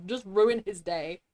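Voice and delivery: slow theatrical villain menace. Pretend. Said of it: "I really wanna be a villain".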